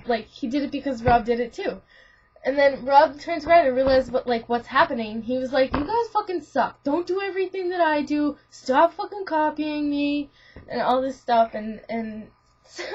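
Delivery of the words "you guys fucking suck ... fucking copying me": higher-pitched annoyed complaint; mock indignant outburst. Rob scolds friends for copying him, mock indignant. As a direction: whine it like a fed-up friend.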